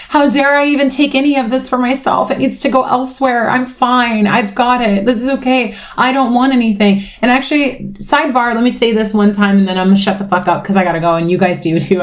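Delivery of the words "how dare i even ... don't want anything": higher voice replaying her guilty thoughts; acted-out self-denial. Telling the world to give it elsewhere, self-denying. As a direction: pitch it up, waving the love away. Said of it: "And it's like".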